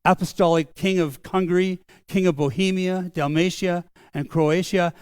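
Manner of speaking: a touch of ceremonial announcing; formal proclamation. Retold or imitated. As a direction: read out royal titles as a proclamation. Chamberlain proclaiming the dead king's titles.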